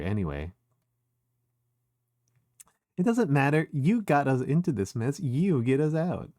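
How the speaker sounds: put-on valley girl Susie telling Chris to lead. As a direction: play a sassy Valley Girl bossing a friend. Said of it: "Valley Girl Susie's really funny".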